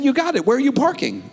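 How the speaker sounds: a hint of a boss voice; breezy high boss. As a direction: play the confident boss. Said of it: "I said".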